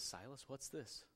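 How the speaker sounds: lightly voiced little girl, soft and slow; a hint of a small child quizzing her brother; little girl asking. Daughter quizzing her little brother at communion, lightly childlike.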